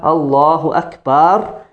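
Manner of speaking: "Akbar" with the ba stretched long, slow; stretched ba in takbir; pulled ba. Shown as a demonstration. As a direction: draw out "Akbar" as "Akbaar". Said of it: "Don't pull the ba".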